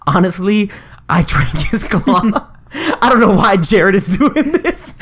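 slow, laughing confessional-camera bro; reality show confessional. Retold or imitated. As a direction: drag it out slowly, cracking up as you confess. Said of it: "and he's like".

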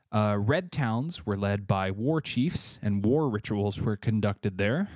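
slightly winded while reading; breathless, catching air between words; out of breath. Real, not acted. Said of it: "I don't know why I'm out of breath".

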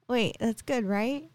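high, hesitant question, imitating coworker; retold uncertainty, lifted pitch; tentative checking. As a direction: check carefully whether it is good news. Coworker checking the news is good.

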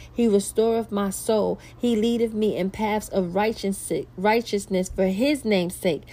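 preaching the psalm aloud; scripture recitation. Acted. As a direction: proclaim the psalm with conviction.

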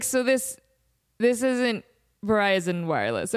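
imitating a halting, puzzled caller; falter, then let it sink in; confused. Confused caller asking people in elevator, halting puzzlement. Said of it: "he's so confused".

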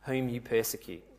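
slow, softened divine pronouncement; voice of Jesus. Acted. Jesus answers Saul from the light, slow and solemn. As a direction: say it slowly, with quiet weight. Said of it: "The voice responds".

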